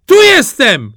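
high, very loud hail from afar; calling out loud. Acted. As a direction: yell to catch the brothers ahead. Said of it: "zawołał Głupi Jaś".

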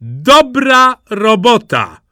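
slow, loud, high cheer; exclaiming praise. A narrator's reading. Princess cheers the mud throw, exclaiming praise. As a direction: applaud with drawn-out delight. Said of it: "zawołała królewna".

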